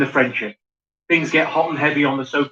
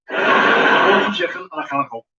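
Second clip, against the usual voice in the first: hammed-up Scouse key phrase; Scouse accent. Shown as a demonstration. Comedian shows how the phrase gets him started, Scouse accent. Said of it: "just comes if you say a few times".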